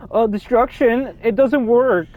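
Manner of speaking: complaining viewer. Retold or imitated. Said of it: "they're like".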